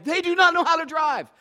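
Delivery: high, loud exasperated complaint; mock frustrated driver. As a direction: sneer at the other drivers. Mocking other drivers in traffic.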